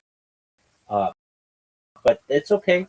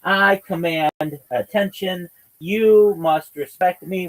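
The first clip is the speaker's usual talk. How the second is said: hammed-up lordly voice, louder and slow; pompous parody, slow and louder; mock arrogant boss; 4 semitones higher, 4 dB louder, slower than usual. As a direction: play a puffed-up tyrant demanding respect. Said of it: "we're like".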